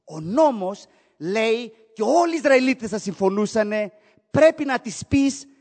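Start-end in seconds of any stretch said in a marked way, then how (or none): 4.3-5.5 loud, high cry of rejection; righteous men demanding she be sent away; harsh command. Retold or imitated. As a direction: bark the order out. Israelites demanding harsh verdict.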